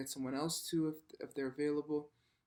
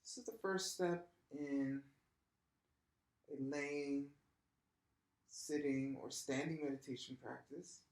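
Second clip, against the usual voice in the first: softer, unhurried voice with long pauses; guided meditation; 5 dB quieter than usual. Real, not acted. Yoga teacher lying down to start practice, soft guided meditation. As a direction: ease them gently into stillness.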